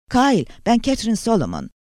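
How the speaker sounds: high-pitched, anxious voice; quite worried. A narrator's reading. Catherine phones the guard, sounding very worried. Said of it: "Kadının sesi oldukça endişeliydi".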